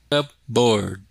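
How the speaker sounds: "cupboard" with no P sound; silent P. Shown as a demonstration. Teacher repeating the example word, silent P in "cupboard". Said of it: "we don't pronounce the P".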